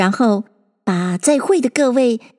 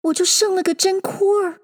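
mildly woeful, high-pitched little voice; a touch of worry in a high character voice; sorrowful voice; 9 semitones higher than usual. A narrator's reading. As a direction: admit it sadly as Alice, pitched up. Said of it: "愁声说道".

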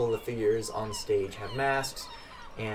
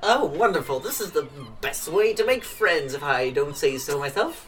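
tipsy little man; 3 semitones higher, 6 dB louder than usual. Acted. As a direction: play a cheerful drunk runt, pitched way up. GM voices tipsy little human.

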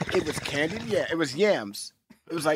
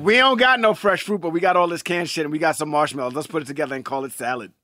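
lightly acted salad inventor; 6 dB louder than usual. Mocking the marshmallow salad's inventor, lightly acted. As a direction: act out whoever dreamed up this dish.

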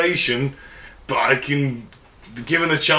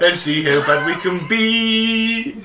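dystopian announcer; 2 semitones higher, slower than usual. Pretend. Menacing propaganda voice.

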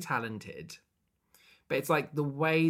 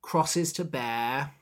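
manipulative priest; 5 semitones higher, 3 dB louder than usual. Retold or imitated. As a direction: proclaim it like a phony chosen one. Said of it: "manipulating people to believe what he says".

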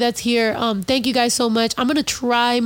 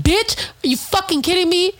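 indignant retort; 5 semitones higher than usual. Real, not acted. Answering someone who questioned him, higher and indignant. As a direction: pitch jumps higher in disbelief.

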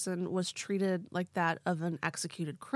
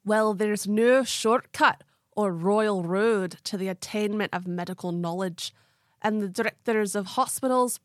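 put-on Scottish accent; 4 dB louder than usual. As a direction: read the quote in a Scottish accent. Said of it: "I'm gonna try to do a Scottish accent".

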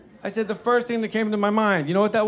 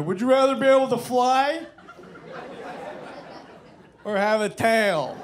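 mock incredulous question; 5 semitones higher than usual. Comic mocks his own question to award winner, high incredulous delivery. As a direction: ask it high, pause, then stretch the ending.

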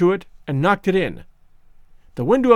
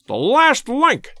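high, slow, delighted cry; exultant cry; 7 semitones higher, much slower than usual. A narrator's reading. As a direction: cry out in triumph. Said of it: "he cried exultantly".

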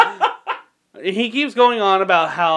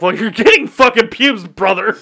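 insistent retort; 4 semitones higher, 5 dB louder than usual. Retold or imitated. Acted retort to the spell caster.

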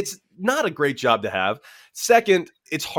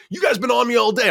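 higher-pitched complaining umpire; mock whiny umpire; 9 semitones higher, faster than usual. Umpire complaining to the player, higher mock whine. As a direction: whine it like a put-upon ump.

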